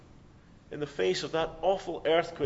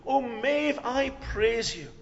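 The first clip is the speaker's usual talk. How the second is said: gushing mock praise; 5 semitones higher, slower than usual. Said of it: "Maeve would give me a very funny look".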